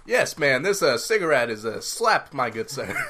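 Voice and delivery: lightly voiced old-time gentleman; nineteen-twenties gent. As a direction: play a hint of a twenties smoker. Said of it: "back in the dang nineteen twenties".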